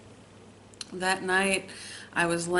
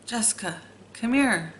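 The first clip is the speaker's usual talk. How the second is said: retold calls, rising higher each time; sister calling my name; 4 semitones higher than usual. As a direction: echo her calling you from upstairs, a touch eerie. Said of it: "she just kept saying".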